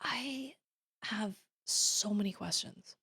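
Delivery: baffled reaction. Retold or imitated. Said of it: "just being like".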